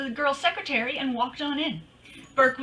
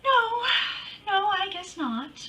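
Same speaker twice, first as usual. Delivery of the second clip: flustered denial; 9 semitones higher, slower than usual. Acted. Caught off guard, backpedaling quickly.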